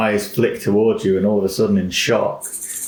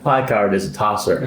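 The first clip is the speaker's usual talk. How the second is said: kenku mimicry.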